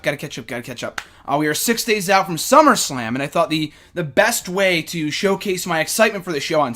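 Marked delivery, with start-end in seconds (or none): 0.0-1.0 breathless mutter. Real, not acted. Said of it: "Gotta, gotta catch up".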